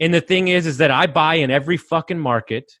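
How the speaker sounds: real fired-up emphasis on every market. Real, not acted. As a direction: press the point, getting worked up. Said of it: "I'm getting fired up".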